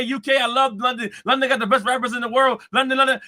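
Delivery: lightly voiced impression of a rapper praising every city on tour; mock rapper speech. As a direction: parody an arena shout-out, gushing to every city. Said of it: "your speeches of saying how much you love this area".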